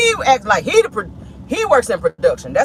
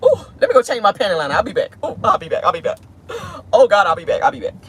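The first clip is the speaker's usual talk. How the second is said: giddy. Retold or imitated. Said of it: "And they be like".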